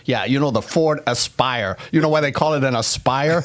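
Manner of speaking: light Boston accent impression; lightly put-on Boston accent. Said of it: "I just wanted to do my Boston accent".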